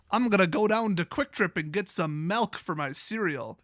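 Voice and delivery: playful Midwest Wisconsin accent. Shown as a demonstration. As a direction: lay on the Wisconsin vowels. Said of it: "the Wisconsin accent".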